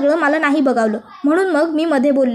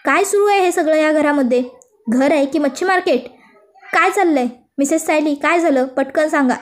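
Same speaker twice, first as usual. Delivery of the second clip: a raised, scolding yell at the whole house; angry shout. Acted. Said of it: "Arjun जोरात ओरडतो".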